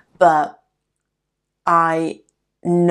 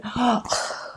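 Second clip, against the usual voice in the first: a sharp, high mock sob-gasp; imitated crying gasp; 7 semitones higher, 5 dB quieter than usual. Acting out the crying girl's gif for listeners, a mock gasp. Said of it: "girl, like, crying and going".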